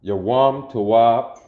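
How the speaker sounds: Yawam Tawab said slowly, weight on tawab; teacher modelling Yawam Tawab; slow Hebrew greeting. Shown as a demonstration. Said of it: "which means we have good morning".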